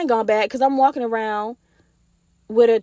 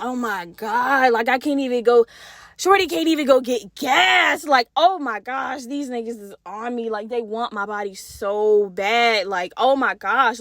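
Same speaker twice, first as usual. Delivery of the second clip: slow, drawn-out exasperated groaning complaint; exasperated eye-roll. Retold or imitated. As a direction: stretch the words out, fed up with the attention. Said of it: "I'm rolling my eyes".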